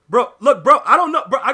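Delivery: loud, laughing disbelief at the frozen console; laughing exasperation. Real, not acted. Streamer laughing to chat as his PlayStation freezes, loud and high. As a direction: laugh it out, fed up.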